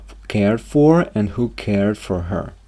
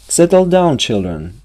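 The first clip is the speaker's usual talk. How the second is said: put-on raised, higher voice calling the kids to settle; firm call to order; 5 semitones higher, 4 dB louder than usual. Teacher calling to noisy children, raised and firm.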